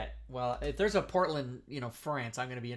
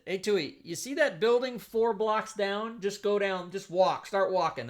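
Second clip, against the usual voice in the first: higher-pitched mock army instructor; retold command, pitched up; acted army order; 5 semitones higher, 4 dB louder than usual. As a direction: send a trainee off with raised, lightly acted orders.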